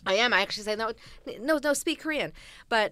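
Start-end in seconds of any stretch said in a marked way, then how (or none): 0.8-2.3 high, loud protest, retold; insistent. Learner refusing the switch to English, acted insistence. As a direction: wave off the offer emphatically. Insisting they keep speaking Korean.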